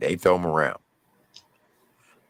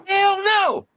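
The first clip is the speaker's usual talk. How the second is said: much higher, mocking threat rising to a yelp; menacing taunt. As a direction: lean in and taunt him. Inmate finally threatens private.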